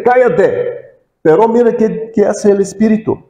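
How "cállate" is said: commanding rebuke. Retold or imitated. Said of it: "Jesús dice".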